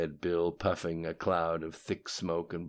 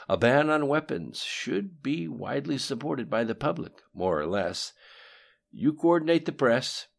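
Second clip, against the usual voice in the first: louder, higher measured schemer; patient conspirator, slightly raised; lightly voiced cool plotter; Lim Shun's voice; 5 semitones higher, 6 dB louder than usual. A narrator's reading. Lim Shun lays out plan.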